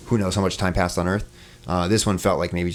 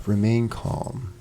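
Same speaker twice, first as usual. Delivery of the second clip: slow, even robotic calm; eerily soothing machine voice; robot lady voice; 3 semitones higher, much slower than usual. Retold or imitated. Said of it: "this robot, robotic, like, robot lady voice".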